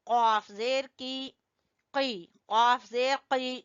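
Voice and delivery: the "क" of "कॉफ" struck at the root of the tongue; deep qaf. Shown as a demonstration. Teacher drilling pupils on "कॉफ" from the root of the tongue. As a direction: hit "कॉफ जेर की" far back in the mouth. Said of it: "कॉफ जबान की जड़ से".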